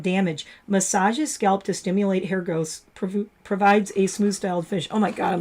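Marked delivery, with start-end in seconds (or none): 3.0-5.4 talking through hiccups; hiccuping. Real, not acted. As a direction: hiccup between words. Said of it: "like, hiccuping".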